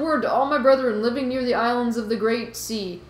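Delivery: put-on Boston fish guy, accent starting to slip; slipping Boston accent. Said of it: "I'm totally losing the accent".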